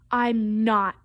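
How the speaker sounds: mild, drawn-out protest; understated storybook yell; crying out in refusal. Acted. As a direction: refuse with a touch of a cry. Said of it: "cried Froggy".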